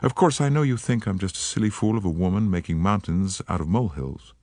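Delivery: put-on light American accent, eager and polite; an American woman, gently worried; faint American accent. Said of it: "She spoke with a faint transatlantic accent".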